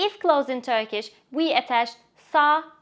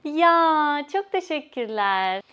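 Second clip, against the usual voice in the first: happy thanks; 3 semitones higher, slower than usual. Shown as a demonstration. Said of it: "ya indicates that you are full of happiness".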